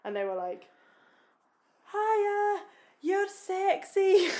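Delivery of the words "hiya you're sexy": put-on high, loud cheeky boys' catcall; hammed-up boy calling out from a wall; mock catcall. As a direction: imitate young lads shouting at her. Boys catcalling, retold.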